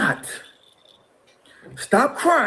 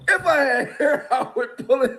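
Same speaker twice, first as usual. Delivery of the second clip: If I had hair said again with a laugh breaking in; laughing through it; 5 semitones higher than usual. Shown as a demonstration. Repeating his line to the interviewer while laughing. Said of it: "If I had hair, I would pull it out".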